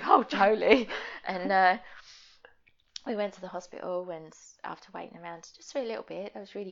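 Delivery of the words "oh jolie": sympathetic mum. Retold or imitated. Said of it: "you know how mums do".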